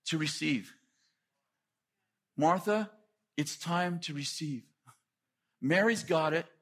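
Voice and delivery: tender invitation, voiced lightly; gentle Jesus. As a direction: coax her gently to come and sit. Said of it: "He's saying".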